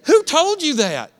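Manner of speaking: high, slow, punchy question; pointed challenge. Acted. Pastor challenging the congregation, slow and pointed. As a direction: hit who hard.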